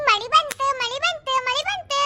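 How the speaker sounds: excited rain cry, rising. Acted. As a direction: climb in excitement as the rain begins. Shouting as rain starts.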